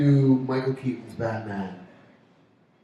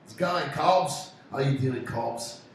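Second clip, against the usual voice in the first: playful attempt at Aussie; Australian accent; slower than usual. Host greeting Cobbs, in mock Australian. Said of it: "my Aussie's getting better".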